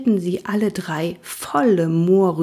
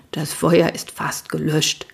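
slow, lower reassuring voice; calming snort; 3 semitones lower than usual. Acted. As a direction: settle the frightened horses. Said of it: "schnaubte Cavalier beruhigend".

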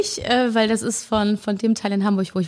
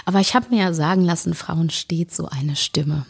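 raspy whisper; hoarse voice; 3 semitones lower than usual. Real, not acted. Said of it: "meine Reibeisenstimme".

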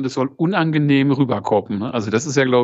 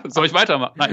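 talking while inhaling; faster than usual. Shown as a demonstration. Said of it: "beim Einatmen".

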